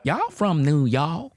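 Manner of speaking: high slow surprised "Y'all from New York?"; the cashier drawing it out; Southern cashier. Retold or imitated. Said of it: "She said".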